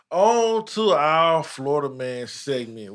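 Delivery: slow drawn-out show host announcing the segment; segment intro. Acted. Host kicking off the Florida Man segment, slow announcer read. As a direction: stretch it out like a TV host.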